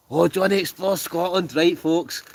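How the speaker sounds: high, loud hype call; excited announcement. Real, not acted. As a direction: sing his praises loudly to the crowd. Announcing a donation to viewers.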